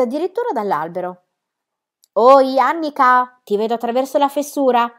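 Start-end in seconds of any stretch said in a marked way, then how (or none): 2.1-4.9 long, loud hollered greeting, easing off slightly; shouted hail. A narrator's reading. Girl inside tree spies friend through crack, shouting. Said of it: "gridò Pippi".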